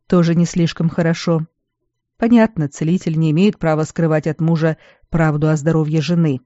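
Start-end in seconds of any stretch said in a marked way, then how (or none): none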